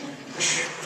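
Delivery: unvoiced whooshing blast sound; imitated explosion noise. Speaker describes a train going off the rail, mimicked blast. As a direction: make a movie crash noise with the breath.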